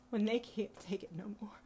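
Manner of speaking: hushed whisper, breath only. Retold or imitated. Mama describing exhausted people, in a whisper. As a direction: whisper it like it hurts. Quoting mama's plea.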